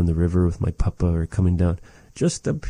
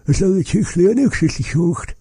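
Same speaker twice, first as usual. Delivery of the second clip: quoted customer; 12 semitones higher, faster than usual. Retold or imitated. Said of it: "where someone asked me".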